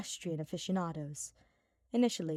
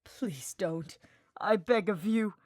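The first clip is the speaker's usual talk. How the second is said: hushed start then a louder plea; a lightly voiced desperate mage; Hubert, pleading; 6 dB louder, slower than usual. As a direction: beg him to stop.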